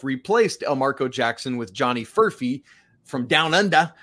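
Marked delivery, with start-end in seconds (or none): 3.0-3.9 a quick, bad Australian accent slipped in; terrible Australian accent. Podcaster jokingly mimicking where the player is from, bad Australian accent. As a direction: toss off a hammed-up Aussie twang. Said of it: "That's a terrible Australian accent".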